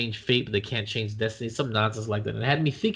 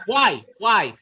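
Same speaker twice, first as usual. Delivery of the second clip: disgusted; 9 semitones higher, 7 dB louder than usual. Real, not acted. Reacting to hangnail shown.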